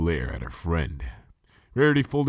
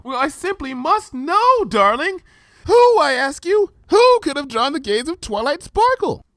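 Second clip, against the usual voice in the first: Rarity, dramatic demand; 9 dB louder than usual. Acted. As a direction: demand it like a diva. Rarity voiced by reader.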